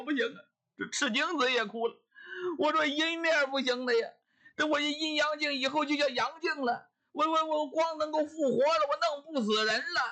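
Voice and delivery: lightly voiced priest half-crying over his treasure; a touch of whining. Priest laments his broken mirror, mock whimpering.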